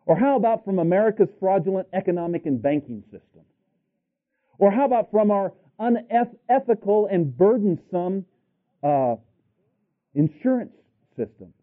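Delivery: high-pitched rhetorical challenge; impassioned preaching. Real, not acted. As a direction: pile up grievances for the congregation. Preacher listing grievances.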